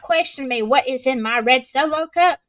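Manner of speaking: sassy, emphatic comeback to a nosy critic; indignant retort. Retold or imitated. Guest tells off Facebook questioner about her cup, indignant.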